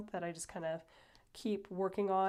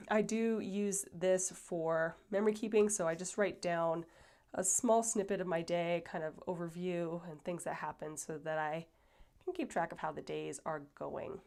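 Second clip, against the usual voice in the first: stuffy nose. Real, not acted. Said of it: "sorry if I sound out of breath, I'm a little bit stuffy".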